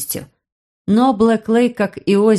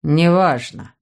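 dismissive uncle; 3 semitones lower, slower than usual. Acted. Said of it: "ответил дядя".

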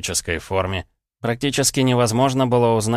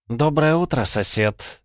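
bright, cheery good morning; cheerful greeting; 7 semitones higher, slower than usual. Acted. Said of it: "весело поприветствовала она меня".

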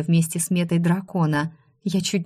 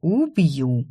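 threatening. A narrator's reading. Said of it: "пообещала я".

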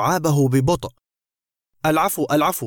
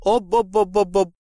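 higher, mock startled cry; shocked yell; 4 semitones higher, much faster than usual. A narrator's reading. Thief sees the photos and cries out, shocked. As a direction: yelp it out in shock. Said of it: "صرخ على إثرها اللص".

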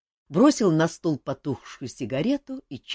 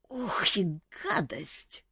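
slow, strained, disgusted; disgusted gasp; 5 semitones higher, 3 dB quieter, much slower than usual. A narrator's reading. Boy wincing after downing the rotgut, slow and disgusted. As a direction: choke it out after a bitter gulp.

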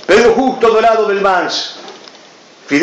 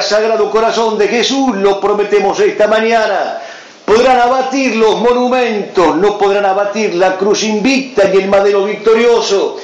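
solemn prayer reading. Acted. Continues the prayer.

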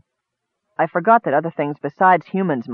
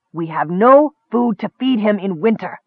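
gruff goblin retort, a touch higher; 4 semitones higher than usual. Acted. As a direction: snap back at the Kender. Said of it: "the goblin retorted".

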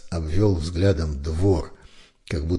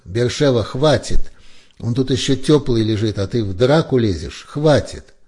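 loud, high shouting to stop a fight; shouting over the scuffle; 6 semitones higher, 6 dB louder than usual. A narrator's reading. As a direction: bark at him to stop. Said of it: "закричал призрак".

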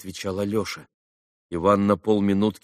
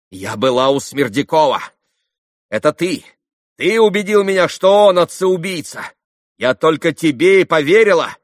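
higher, louder, rising accusation; accusing outburst; 8 semitones higher, 8 dB louder than usual. Acted. Katerina accusing Ivan, loud outburst. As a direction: fling the blame at him.

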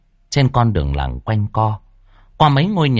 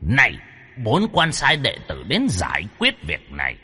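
hushed solemn deity; 4 dB quieter than usual. Acted. Demon speaks as Bụt.

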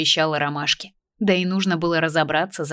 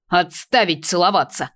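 barked order; 4 dB louder than usual. Acted. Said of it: "рявкнул папа".

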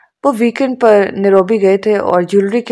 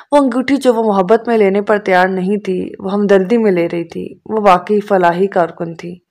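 plain reading voice

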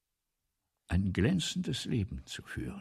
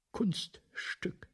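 whisper; 8 semitones higher, 4 dB quieter than usual. Acted. Writer sneers at "trick of art.

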